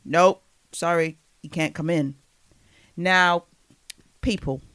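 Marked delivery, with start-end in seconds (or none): 0.0-2.1 lightly voiced bouncer turning someone away; bodyguard. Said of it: "Bodyguard said".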